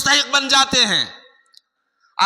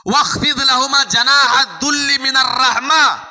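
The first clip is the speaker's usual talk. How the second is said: ringing, raised recitation of the verse; forceful recitation; faster than usual. Acted. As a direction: proclaim the verse to the congregation.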